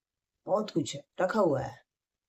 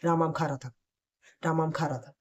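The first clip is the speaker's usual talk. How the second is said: fast reading; faster than usual. Shown as a demonstration. Teacher demonstrating the third speed, reading fast. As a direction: rattle the line off quickly. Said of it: "वो fast में पढ़ना है".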